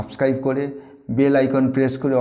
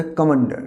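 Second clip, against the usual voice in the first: "কমান্ডার" with the stress on "মা"; stress on second syllable. Shown as a demonstration. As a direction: lean on the middle of "কমান্ডার". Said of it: "ময়ের উপরে একটা stress পড়বে". ("কমান্ডার" মাঝের অক্ষরে জোর)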